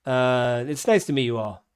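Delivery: put-on high-pitched, flustered older man; old barkeep greeting guests. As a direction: greet them haltingly in a high old-timer voice. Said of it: "he's like".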